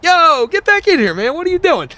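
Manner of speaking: security guard. Retold or imitated. Security guard waving a regular back into the club, high hollering. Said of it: "the security guard's like".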